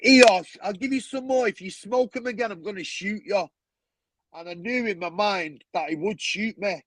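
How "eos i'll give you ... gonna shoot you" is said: a hint of a menacing gangster; threat. Dealer threatening Marv over the smoked crack, menacing. Gang member threatening him.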